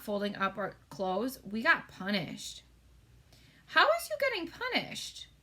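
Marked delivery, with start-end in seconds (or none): 3.7-5.3 high shocked giant question; the giant aghast, asking; giant's voice. A narrator's reading. Giant asking Sophie in a high shocked voice.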